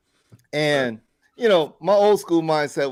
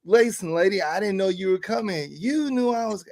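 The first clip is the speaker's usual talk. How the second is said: high, incredulous protest; exasperated pointing out; 5 semitones higher than usual. Retold or imitated. Speaker arguing about the one-way lot, high and incredulous. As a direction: make her see the one-way sign. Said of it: "And I'm like".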